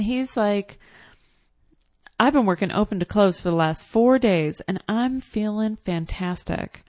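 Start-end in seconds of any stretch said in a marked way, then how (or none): 2.2-6.8 hyper salesman. Retold or imitated.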